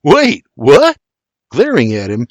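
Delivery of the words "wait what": baffled, pitched up; confused. Acted. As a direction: ask like you missed something. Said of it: "shakes his head like he missed something".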